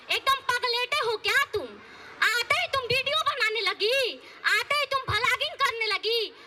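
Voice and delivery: a hint of a stern village saas, nagging; lightly voiced scolding mother-in-law. Mother-in-law scolding daughter-in-law over her clothes, nagging.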